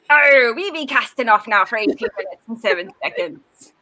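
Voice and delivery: lightly voiced pirate captain. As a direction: cast off like a pirate. Pirate launch announcement, far timbre.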